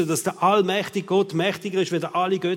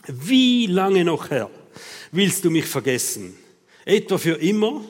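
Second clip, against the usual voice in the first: drawn-out, reproachful plea to God; reproachful lament; 4 dB louder than usual. Acted. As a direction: stretch the opening cry, then press the question. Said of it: "Das sind schöne Vorwürfe".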